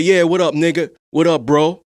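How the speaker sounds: playful imitation of a slangy hello; mock casual greeting. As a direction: hail your dad like a buddy, loud and breezy. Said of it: "I never gonna call my dad".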